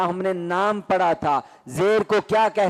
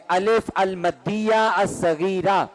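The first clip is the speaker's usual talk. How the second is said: slow loud recitation; slower than usual. Shown as a demonstration. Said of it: "اونچی آواز میں".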